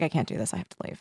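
low, very soft admission; soft and low, fading away; retold quiet resignation. Retelling quiet resignation speech.

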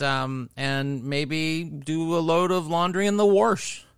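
homey Missouri accent with "warsh" for wash. Shown as a demonstration. Co-host plugging socials to listeners, Missouri accent. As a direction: read the plugs in a Missouri accent. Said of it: "I'll do it in my Missouri accent".

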